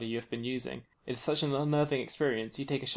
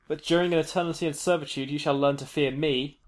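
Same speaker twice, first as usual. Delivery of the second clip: booming. Acted. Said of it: "the Shadow King booms".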